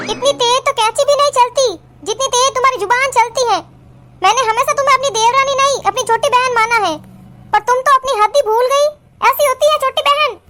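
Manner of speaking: acted hurt anger, pitch lifted; angry reproach. Elder sister-in-law reproaching Kajal after a slap, angry. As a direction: reproach her for overstepping.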